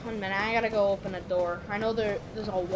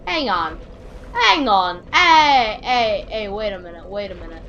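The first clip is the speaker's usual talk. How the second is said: surprised; 5 dB louder than usual. Real, not acted. Spots something new in game.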